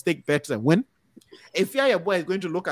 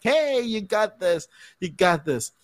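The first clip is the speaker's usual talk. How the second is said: drawn-out, higher "hey", then easing off; mock cheering yell; 4 semitones higher, slower than usual. Overkeen supporter calling to cheer you on, mock yell. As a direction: imitate a sideline parent's yell, without full volume. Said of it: "give you a call and yell".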